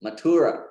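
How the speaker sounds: Mathura as ma-THOO-ra; long middle U, short final vowel in Mathura; mispronounced Mathura. Shown as a demonstration. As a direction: stress and prolong the U of Mathura. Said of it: "prolong and put the stress on the U".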